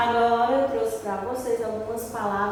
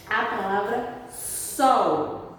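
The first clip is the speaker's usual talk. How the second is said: slow, clear teacher reading of sol; slow syllable demo; slower than usual. Shown as a demonstration. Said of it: "Eu abri minha boca quantas vezes".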